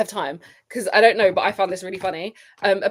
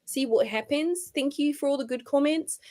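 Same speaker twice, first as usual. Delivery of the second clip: higher put-on voice imitating her; mocking, put-on statement voice; mock athlete's statement; 4 semitones higher than usual. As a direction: parody her statement in an affected, high voice.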